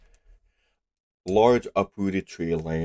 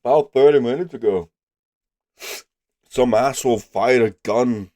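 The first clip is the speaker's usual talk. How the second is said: gruff hermit voice; 4 semitones higher, 6 dB louder than usual. Acted. GM voices wounded tree dweller.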